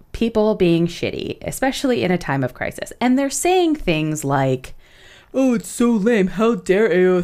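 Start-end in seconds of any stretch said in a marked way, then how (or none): 5.3-7.2 put-on dude-bro voice, pitched up. Mocking people who complained about AO3's fundraiser, in a bro voice. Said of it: "This is my bro voice".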